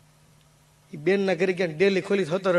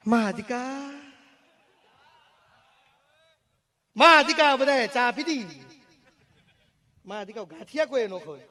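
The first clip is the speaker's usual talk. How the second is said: Hakabha Gadhvi impression; 5 semitones higher than usual. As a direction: stretch out મા અધિકા like a dayro storyteller. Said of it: "એમાં સૌથી પહેલો અવાજ હકાભા ગઢવી". (હકાભા ગઢવીની હળવી નકલ)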